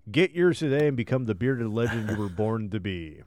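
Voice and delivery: upbeat infomercial announcer voice; ad read. Acted. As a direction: sell it like a TV pitchman. Reads sponsor ad for beard butter.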